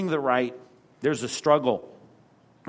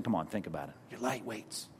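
soft and much lower, a quiet rebuke; low, pointed chiding; 5 semitones lower, 13 dB quieter than usual. Retold or imitated. Hebrews writer chiding weak believers, low and soft. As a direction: lean in and quietly needle them. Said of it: "The writer of Hebrews is saying".

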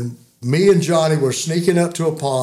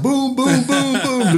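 imitated booms; 10 semitones higher, slower than usual. Imitating ducks flushing off pond.

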